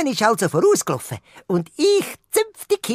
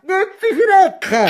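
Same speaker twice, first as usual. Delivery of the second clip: urgent warning; 7 semitones higher, slower than usual. Acted. Globi warns Laura.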